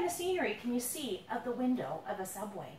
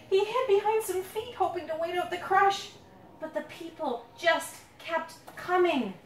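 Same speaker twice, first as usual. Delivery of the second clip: higher and louder to a shouted freedom; building excitement; 6 semitones higher, 11 dB louder than usual. A narrator's reading. Parent reading the escape to the kids, building to a joyful shout. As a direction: race toward the door, then cry out.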